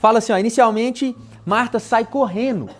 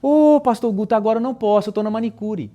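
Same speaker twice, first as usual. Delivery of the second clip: casual brush-off; 3 semitones higher than usual. Retold or imitated. Friend Luísa lightly brushing off the pastor's plea, breezy. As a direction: toss it off like it's nothing. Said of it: "ela me responde assim".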